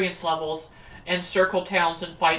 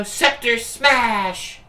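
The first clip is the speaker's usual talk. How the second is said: slow called-out move name; attack call; 3 semitones higher, 3 dB louder, much slower than usual. Acted. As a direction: shout the move like an anime hero. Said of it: "let's use our basic attack".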